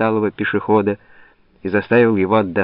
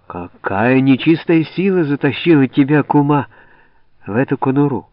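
удивлённая брань; 5 semitones higher, 3 dB louder than usual. Acted. Писарь бранит куму при всех.

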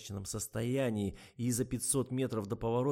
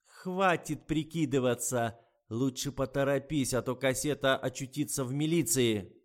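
angry threat; 4 semitones higher, 7 dB louder than usual. A narrator's reading. Old woman threatens the writer with the tape, loud and high.

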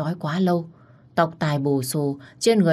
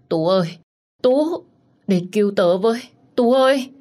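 much higher, crying out in despair; desperate wailing; 5 semitones higher, 4 dB louder than usual. Acted. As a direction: wail the name with no hope left. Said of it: "Nó kêu gào trong vô vọng".

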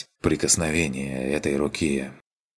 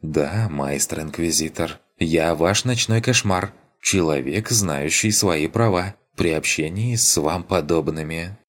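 playful. Acted. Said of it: "игриво".

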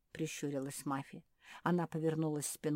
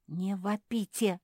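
велел строго; 4 semitones higher, 7 dB louder, slower than usual. Acted. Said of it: "велел Бен".

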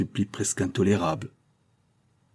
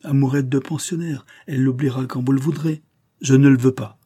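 a touch of contempt, then a loud flat refusal; disdainful scoff; 6 semitones higher, 4 dB louder than usual. Acted. Marquis to Madame Fauvel, mildly scornful. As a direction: brush the girl's love aside. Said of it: "haussa dédaigneusement les épaules".

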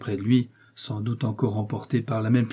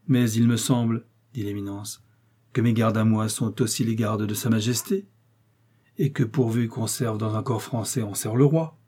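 authoritative cardinal voice, pitched up. Acted. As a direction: speak down to the young man as the cardinal. Cardinal continues speaking.

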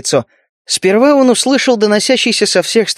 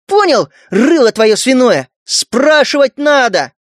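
higher, slow furious yelling; yelled; 6 semitones higher, slower than usual. Acted. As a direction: scream it in his face. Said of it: "проорала".

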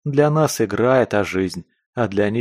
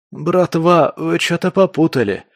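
higher, louder, rasped after coughing; hoarse croak; 8 semitones higher, 4 dB louder than usual. Acted. Captive Скворец to his captors, hoarse croak. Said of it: "откашлявшись, прохрипел Скворец".

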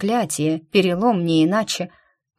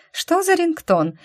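scoffing; 11 semitones higher, slower than usual. A narrator's reading. Witch scoffing at ringtone.

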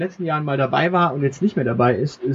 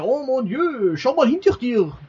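high, lightly French-tinged cannibal; 10 semitones higher than usual. Acted. Game master voicing the cannibal to the player, high and sly. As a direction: squeak it like a sly cannibal trick. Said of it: "sagt der Kannibale".

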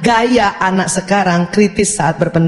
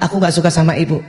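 put-on subdued, lower-pitched child complaint; lowered intonation; 4 semitones lower, faster than usual. Child tells mother his dislike after deep breaths, calmed. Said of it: "intonasi yang tujuh oktav itu bisa turun".

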